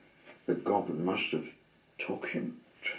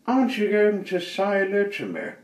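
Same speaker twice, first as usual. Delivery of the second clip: high, loud cheery goblin hello; squeaky goblin greeting; little goblin; 12 semitones higher, 9 dB louder than usual. Acted. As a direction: call out like a tiny chirpy goblin. Goblin voice in story.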